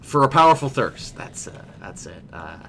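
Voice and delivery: slurred tipsy brewer; drunk voice. Acted. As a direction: slur it like a merry barkeep. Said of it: "Um, that's my drunk".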